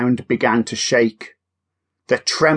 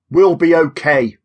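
reassuring; 3 semitones higher, 3 dB louder than usual. Acted. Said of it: "Oliver reassured them".

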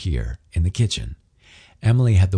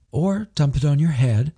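cooed; 8 semitones higher than usual. A narrator's reading. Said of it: "she cooed".

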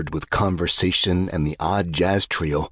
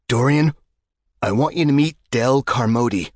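much higher and louder, beaming at the friend; eager introduction; 8 semitones higher, 3 dB louder than usual. A narrator's reading. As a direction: present him proudly.

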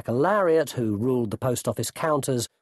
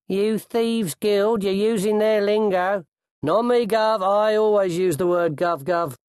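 high, raised character voices calling up and down; higher-pitched street-crook exchange; thief and his challengers; 9 semitones higher, 3 dB louder than usual. A narrator's reading. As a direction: banter like a cornered thief caught by the locals.

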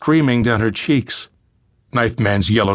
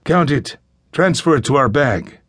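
put-on kidnapper's order with a slight Spanish accent; Spanish-accented English; 4 semitones higher than usual. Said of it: "He addressed the fathers in accented English".

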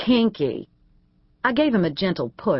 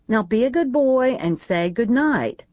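higher, brisk schoolmarm command; firm scolding; 6 semitones higher than usual. A narrator's reading. Keely ordering A J to say good night, higher mock-stern. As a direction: send him off like a naughty boy.

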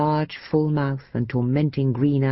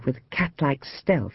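usual speaking voice

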